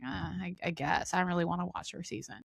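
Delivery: soft, half-hearted reply; mumbled-down, lukewarm acting out of reluctance; reluctant agreement. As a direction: give in quietly, without enthusiasm. Retelling her reluctant reply to friends.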